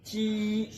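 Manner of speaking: ची said with a level, flat tone, not rising or falling; flat chi. Shown as a demonstration. Teacher showing students the flat Chinese ची. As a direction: hold ची on one even pitch like a Chinese first tone. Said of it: "आपने जरा flat करना है".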